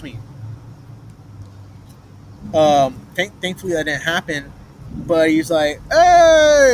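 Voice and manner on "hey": sudden high yelled hey; a loud startled hey, retold; retold shout. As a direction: bark it out like a threatening stranger. Man waving gun shouts.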